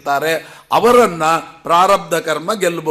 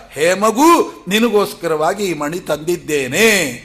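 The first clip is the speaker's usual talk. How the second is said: a lightly voiced father calling to his child, louder on the opening; a hint of a doting father calling his daughter; Jambavanta to daughter; 3 dB louder than usual. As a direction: offer the gem to her like a loving father. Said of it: "ಅಂತ ಹೇಳಿದರು".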